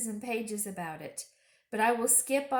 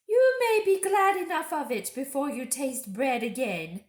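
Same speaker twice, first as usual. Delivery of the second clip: higher, much louder witch threat; menacing witch; 6 semitones higher, 9 dB louder than usual. Acted. Witch warning Edmund about bread, menacing. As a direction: threaten him coldly. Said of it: "said the witch".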